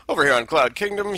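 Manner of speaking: lightly put-on posh commentator. Shown as a demonstration. Caster doing a posh voice for the map name. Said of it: "sounding very posh, intelligent".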